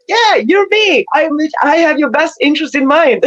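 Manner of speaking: lightly voiced wise guide. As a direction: soothe the doubter. Higher self reassuring.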